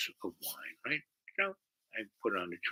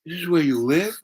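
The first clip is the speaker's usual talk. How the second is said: put-on surprised girl; 6 semitones higher, 4 dB louder than usual. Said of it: "She goes".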